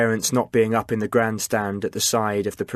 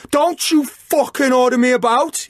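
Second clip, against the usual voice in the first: much higher, louder angry yell; furious yell; 14 semitones higher, 6 dB louder than usual. A narrator's reading. Chris turning on Liam in rage, furious yell. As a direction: snarl it back in rage. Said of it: "he yelled".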